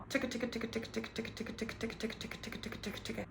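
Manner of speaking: ticka ticka said very soft with teeth closed; quick quiet ticka, jaw still; ticka drill, teeth together. Shown as a demonstration. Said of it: "put your teeth together".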